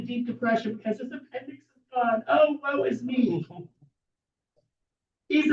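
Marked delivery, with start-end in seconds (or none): 2.3-3.5 slow, hammed-up wail of self-pity; mock woe. Mocking an imagined sufferer with a theatrical wail. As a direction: drag it out like fake sorrow.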